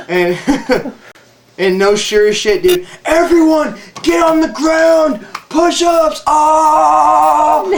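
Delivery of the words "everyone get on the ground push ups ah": high, loud drill commands; shouted orders. Retold or imitated. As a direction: bark it at the whole platoon. Sergeant barks orders.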